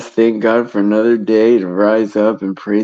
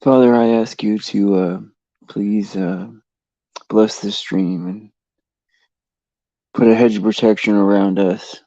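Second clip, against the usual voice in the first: spoken prayer blessing the livestream. Real, not acted. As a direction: pray to the Father, plainly sincere. Leads a short stream prayer.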